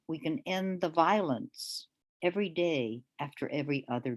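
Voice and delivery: measured, deliberate poetry reading voice. Acted. Poet reading her poem to the audience, measured reading.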